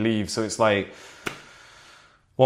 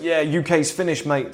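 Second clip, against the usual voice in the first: higher-pitched imitated Cockney bloke; Cockney accent; 5 semitones higher than usual. Guy at the airport to another bloke, imitated Cockney accent. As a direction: quote him in a Cockney accent. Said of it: "in a Cockney accent".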